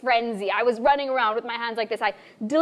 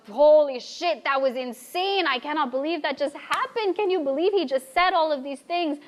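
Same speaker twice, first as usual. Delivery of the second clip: excited disbelief; 4 semitones higher than usual. Retold or imitated. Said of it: "held each other laughing, giggling".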